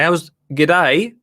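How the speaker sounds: playful touch of Australian; lightly mimicked Australian greeting; Australian accent. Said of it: "maybe I shouldn't do the accent".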